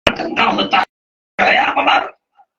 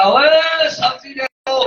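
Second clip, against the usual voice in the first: calling out loudly; 4 semitones higher, much slower than usual. Acted. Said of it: "اس نے زور زور سے کہا".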